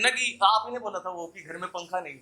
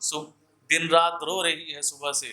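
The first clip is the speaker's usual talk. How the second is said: earnest poetic recital, repeating each line for effect; ghazal recitation; slower than usual. Acted. Poet warning listeners in verse, earnest recital. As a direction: plead gently with the crowd through the verse.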